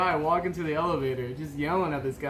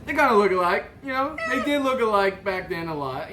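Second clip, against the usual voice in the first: laughing; 5 semitones higher, 3 dB louder than usual. Real, not acted. Teasing, laughing.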